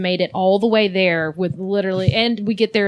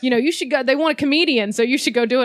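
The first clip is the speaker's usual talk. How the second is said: friend's pitch; 3 semitones higher than usual. Retold or imitated. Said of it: "So he was like".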